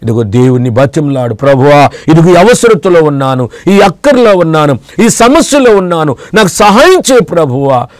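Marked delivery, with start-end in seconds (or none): 1.3-7.9 begging prayer. Shown as a demonstration. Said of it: "అని చెప్పేసి నువ్వు బతిమలాడు".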